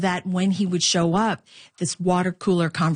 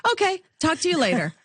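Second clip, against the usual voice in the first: much higher, fast brush-off as mom; brisk mom; 10 semitones higher, faster than usual. Retold or imitated. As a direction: rattle it off high and quick like a busy mother. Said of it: "but get to the point".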